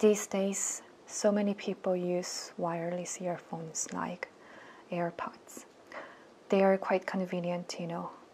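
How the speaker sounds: downcast, hushed near-whisper, low energy. Teacher demonstrates a speaking-test answer type with a gloomy, low-energy delivery. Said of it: "우울 감성형인데요... 텐션 자체가 너무 다운돼 있는... 어떤 느낌인지 제가 알려드릴게요".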